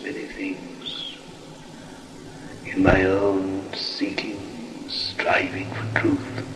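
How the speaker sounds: slow, hushed, grave recounting of ages; grave ancient myth telling. Acted. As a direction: whisper it like a voice from centuries past. Spirit recounts ancient past life.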